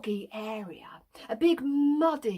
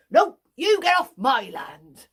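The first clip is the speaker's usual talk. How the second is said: angry retort; 6 dB louder than usual. Acted. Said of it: "he lifts up his fist and he says".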